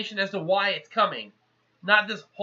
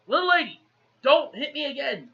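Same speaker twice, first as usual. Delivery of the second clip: high-pitched mock scolding; scolding warning; 5 semitones higher than usual. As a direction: act out an offended warning. Retold scolding of the woman.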